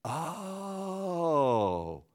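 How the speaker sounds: a real catch of tears; brief real sob; choked up. Real, not acted. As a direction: let the voice break. Preacher overcome by memory.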